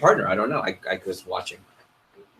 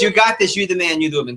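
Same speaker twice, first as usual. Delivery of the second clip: wimpy voice; 5 semitones higher than usual. Shown as a demonstration. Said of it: "In the wimpy voice".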